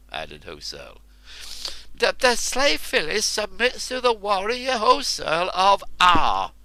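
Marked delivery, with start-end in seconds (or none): 1.9-6.5 shouted. Acted. Enraged woman repeating her submission, shouting high. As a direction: hurl it out in fury. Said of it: "shouted Phyllis".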